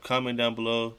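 normal talking voice

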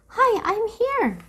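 high, loud, spluttering through water; sputtering. A narrator's reading. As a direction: gasp it out half drowning. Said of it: "Annie sputtered".

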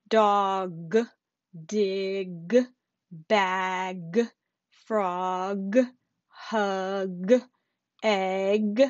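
final G clearly released on "Dog", "frog", "mug"; crisp, audible G at the end of each word; exaggerated word endings. Shown as a demonstration. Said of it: "now we're gonna move on to our final G sound".

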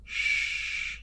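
knight hushing Lady Tina; whispered shh. Acted. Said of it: "he said to Lady Tina".

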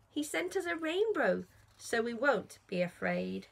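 gentle, lilting storybook rhyme; reading to children. A narrator's reading. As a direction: read the rhyme to little ones with a lilt. Reads Noah rhyme to children.

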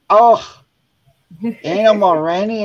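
high, loud incredulous outburst; retold shocked dismay. Grandma confesses eating the candy, high loud disbelief.

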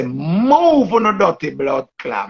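imitating a favourite cuss line; mock cussing. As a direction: stretch the cuss out slowly, relishing it. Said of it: "she cuss and say".

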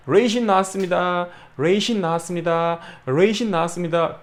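announcing raisin bread in the shop; mock shop call. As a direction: call out the order like a clerk. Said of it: "만들어서".

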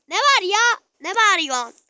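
high, loud, whiny reply; whining child answering mother; annoyed kid. Pretend. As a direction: talk back like a grumpy child. Annoyed reply to being called.

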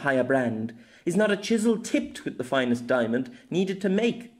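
lady reading a florid plea aloud; rising rhetorical questions, read out earnestly; reading a letter aloud. A narrator's reading. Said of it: "Somewhat more quietly, she began to read from it aloud".

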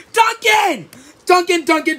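urgent calling. Acted. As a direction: call him over in alarm.

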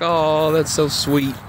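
slow, fond reply to the dog; slow tender aww to the pet; touched. Retold or imitated. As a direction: savour the sweetness, drawn out. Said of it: "I was like".

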